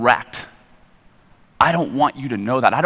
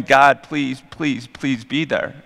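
pleading prayer; much slower than usual. Retold or imitated. Desperate prayer in a story.

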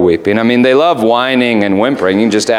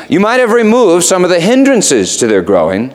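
the raven; 8 semitones higher than usual. Acted. Raven voiced in retold story.

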